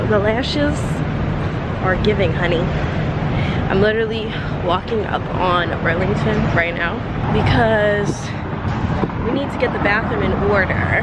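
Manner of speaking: muffled behind a face mask; talking through face mask. Real, not acted. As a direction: speak with a mask over your mouth. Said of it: "you guys can't hear me when I walk, talk with my mask on".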